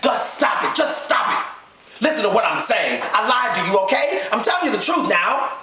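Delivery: high-pitched desperate pleading; frantic confession. Acted. Wife confessing her lie to husband, frantically. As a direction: plead at the top of your register.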